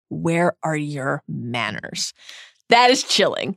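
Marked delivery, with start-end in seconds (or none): 0.1-2.1 slow, soft menacing drawl; Voldemort voice. Acted. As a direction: drag out the threat slowly.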